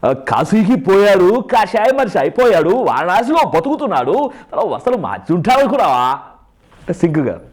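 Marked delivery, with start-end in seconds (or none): 0.0-6.2 sway the pitch through each stretched phrase; Chiranjeevi dubbed now. Shown as a demonstration. Mimic trying to re-dub the old line, exaggerated swooping hero voice. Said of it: "ఇప్పుడు దీనికి dubbing చెప్పమంటే".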